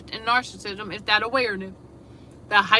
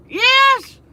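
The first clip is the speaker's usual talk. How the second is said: high, loud burst of yes; triumphant shout of agreement; excited yes; 13 semitones higher, 5 dB louder than usual. Real, not acted. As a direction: cheer the word out. Affirming her own point.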